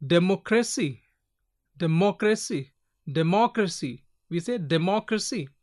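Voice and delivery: "democracy" repeated as a drill, moc stressed. Shown as a demonstration. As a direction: lean on the second syllable of "democracy". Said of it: "here we put more stress with these".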